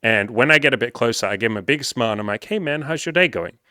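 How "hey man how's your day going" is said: friendly greeting. Retold or imitated. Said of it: "she's giggling ... hears me say that".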